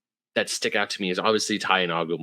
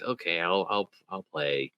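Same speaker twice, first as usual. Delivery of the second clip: low, softer, slowing mock reluctance; reluctant tough guy; 3 semitones lower, 5 dB quieter than usual. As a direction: give in grudgingly as the tough guy. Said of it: "his whole tough guy persona thing".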